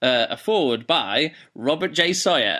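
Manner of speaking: slow, grand mock announcement; announcer impression. Host mimics the audiobook announcing its foreword, slow and grand. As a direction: spell out the foreword like a pompous announcer. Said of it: "And then it goes".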